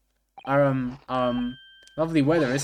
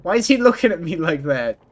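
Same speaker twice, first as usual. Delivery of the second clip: raised, louder outburst of alarm; startled, loud "why is he looking"; startled question; 2 semitones higher, 4 dB louder than usual. Real, not acted. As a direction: blurt it out, taken aback. Startled reaction to a character's look.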